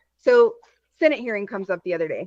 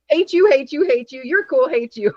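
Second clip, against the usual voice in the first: mock sorting by party; 3 semitones higher than usual.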